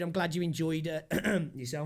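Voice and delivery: talking through a sore throat; slightly hoarse, sore throat voice. Real, not acted. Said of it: "I'm getting a bit of a sore throat".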